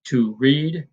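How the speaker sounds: light "to", drawn-out "read"; unstressed then stressed. Shown as a demonstration. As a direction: lean on "read" after a short "to". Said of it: "unstressed followed by stressed".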